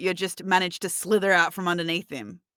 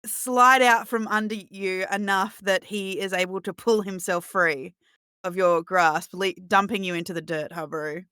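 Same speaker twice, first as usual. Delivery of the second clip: game master narration; 3 dB louder, slower than usual. Acted.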